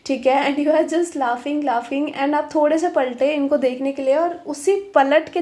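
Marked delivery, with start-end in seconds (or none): none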